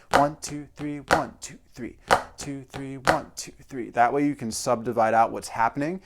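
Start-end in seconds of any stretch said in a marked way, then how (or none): 0.1-3.9 evenly timed count, slightly raised; rhythmic counting aloud. Shown as a demonstration. Drum teacher demonstrates his silent subdivision, rhythmic counting. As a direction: count the subdivision steadily on the beat. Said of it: "I'm thinking to myself".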